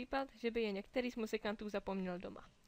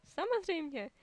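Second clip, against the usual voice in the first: higher, eager exclamation; eager cry; 7 semitones higher, 4 dB louder than usual. A narrator's reading. The mermaids eagerly agree to play the drums. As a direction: answer eagerly all together. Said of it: "vykřikly mořské pany".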